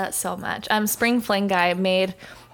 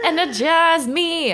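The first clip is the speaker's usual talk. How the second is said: high, slow, laughing energize me; laughing mock demand to a friend; laughing plea; 9 semitones higher, 3 dB louder, slower than usual. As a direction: beg playfully through a laugh. Playful exclaim with laugh.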